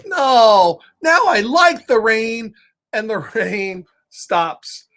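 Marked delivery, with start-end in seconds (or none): 0.0-2.5 upset Piggy. Acted. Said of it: "Piggy's, like, upset".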